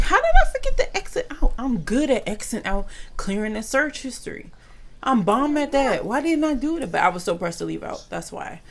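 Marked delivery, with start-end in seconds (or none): 0.0-6.9 panicked disbelief. Retold or imitated. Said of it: "'cause I'm like".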